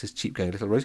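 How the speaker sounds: ordinary delivery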